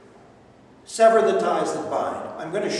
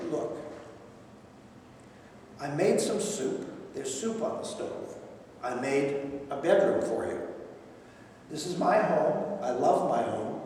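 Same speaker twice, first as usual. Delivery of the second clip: calm and controlled; softly, firmly setting a boundary; gentle but firm to his mother; very quiet; 4 semitones lower, 5 dB quieter than usual. Retold or imitated. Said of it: "All of this very quietly, very controlled".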